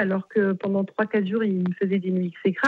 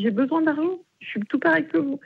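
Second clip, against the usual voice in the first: raised, insistent j'ai besoin d'argent; higher-pitched indignant plea to the mother; pleading higher; 6 semitones higher than usual. Retold or imitated. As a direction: push the plea up high to make her hear. Repeats her plea to the mother.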